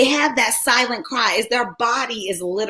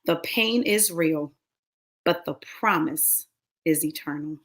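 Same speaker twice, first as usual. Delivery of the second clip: God's voice; 4 semitones lower, 6 dB quieter than usual. Retold or imitated. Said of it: "I heard God say".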